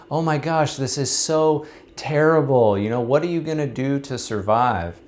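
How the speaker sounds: high, fretful gasp of a worried neighbor; alarmed neighbor. Acted. Neighbor frets to the farmer about the runaway horse, high and alarmed.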